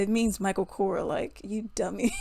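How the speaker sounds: a mild imitation of a condescending put-down; lightly mock his talking-down tone, like she's a dummy; condescending intonation. Friend explaining the brand to her, mild mock condescension. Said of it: "the way he said it was his intonation".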